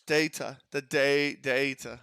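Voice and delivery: "Data" with a long "day" first syllable; British-style "Data". Shown as a demonstration. Showing viewers the British pronunciation, "Data" as DAY-tuh. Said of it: "their pronunciations have totally slipped into my vocabulary".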